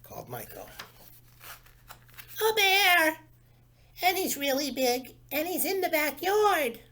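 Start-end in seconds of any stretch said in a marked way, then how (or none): 2.4-6.8 put-on a small boy bursting in with news; excited little boy. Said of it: "said Carl".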